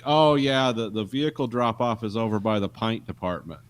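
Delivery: lightly put-on Atlanta accent; Atlanta Southern accent. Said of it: "Oh, paint".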